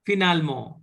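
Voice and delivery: finalement, said the French way. Shown as a demonstration. Teacher models finalement in French for the class. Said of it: "uh, finally".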